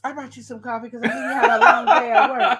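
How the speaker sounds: sugary fake kindness, laughing through it; sly coworker offering coffee. Coworker bringing him coffee, sly and laughing. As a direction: sweet-talk him with a laugh. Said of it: "she comes back over".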